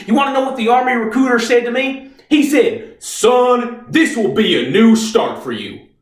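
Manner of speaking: high-pitched, anguished shouting; impassioned outburst. Acted. Reeves tells how the Army failed him, high, angry outburst. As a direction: build to a pained, shouted accusation.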